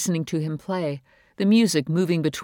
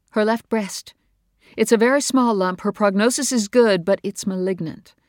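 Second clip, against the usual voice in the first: higher, louder, strained mother's voice; upset mother; 6 semitones higher, 5 dB louder than usual. Acted. Mother telling her husband about Bree's cancer, upset and raised. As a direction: let the distress push the voice up.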